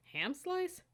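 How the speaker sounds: can't believe what's for lunch; incredulous. Acted. Cadet staring at her lunch packet, incredulous. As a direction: pitch leaps up in disbelief.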